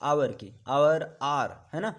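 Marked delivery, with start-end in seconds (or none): 0.7-1.2 आवर said loudly with no h sound at the start; loud model of आवर with a silent h; silent h pronunciation. Shown as a demonstration. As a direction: say आवर as "our", dropping the h completely. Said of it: "इसको हावर नहीं बोलते हैं".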